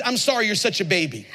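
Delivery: laughing, snide translation; mocking with a laugh. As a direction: sneer it with a chuckle. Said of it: "That means".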